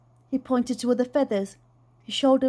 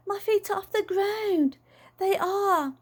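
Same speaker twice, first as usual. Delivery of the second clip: giggly; 9 semitones higher than usual. A narrator's reading. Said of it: "he giggled at himself".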